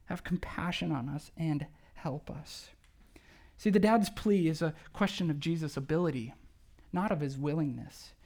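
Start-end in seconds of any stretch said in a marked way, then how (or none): 0.0-2.7 pleading father. Retold or imitated. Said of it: "he makes this one plea".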